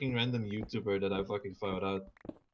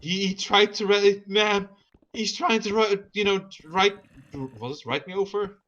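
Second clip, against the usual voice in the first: high, loud frantic Karen voice; a panicky woman pleading with police; Karen calling police; 8 semitones higher, 5 dB louder than usual. Retold or imitated. Woman phoning police about a driver, frantic high voice.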